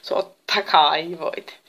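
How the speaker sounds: slow, drawn-out, smiling reassurance. A narrator's reading. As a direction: agree readily with a smile, stretching the words. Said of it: "hymyili Epimetheus". (hymyilevä, venytelty myöntö)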